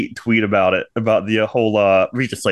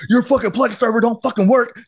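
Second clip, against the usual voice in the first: high, mock-annoyed friend voice; whiny complaint, pitched up; imitating Charlie; 10 semitones higher than usual. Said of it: "and Charlie says".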